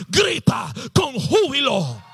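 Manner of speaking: slow, drawn-out rallying command; forceful preacher's command; emphatic proclamation. Real, not acted. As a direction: proclaim it word by word. Proclaims the key command slowly.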